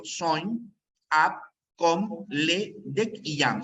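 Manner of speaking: "Soñ, ab, com, le, dec y yam" said as clipped stems with no ending; bare verb roots. Shown as a demonstration. Teacher to class, sounding out each bare verb root. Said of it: "Esta es la raíz del verbo".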